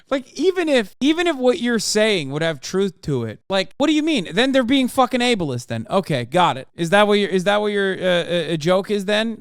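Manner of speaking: loud, high, heated rant; wild unhinged ranting. Real, not acted. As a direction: rant at the chat in disbelief. Streamer ranting at chat.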